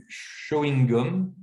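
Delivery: "chewing gum" slowly as "cho-ing gom"; deliberate "cho-in-gom"; one regional variant. Shown as a demonstration. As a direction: stretch "chewing gum" with an o sound. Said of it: "il peut être prononcé vraiment différemment".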